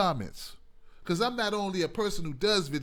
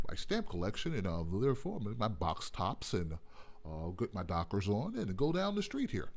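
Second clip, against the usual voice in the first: much lower, soft nerdy white-guy voice; mock the stamp-collecting square in a low, mild voice; stereotypical white guy; 9 semitones lower, 4 dB quieter than usual. Mocking the stereotype of how white guys talk. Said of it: "Not every white guy talks like this".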